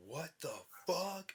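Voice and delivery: a shocked first double take; startled retelling. Retold or imitated. First shock at discovering symptom.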